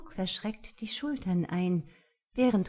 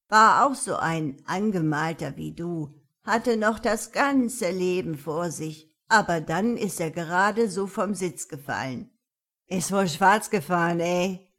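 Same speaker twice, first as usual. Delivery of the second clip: loud, sneering punk; cocky teen voice; 5 dB louder than usual. Acted. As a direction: spin a mean tale to scare her. Goth threatens jokingly.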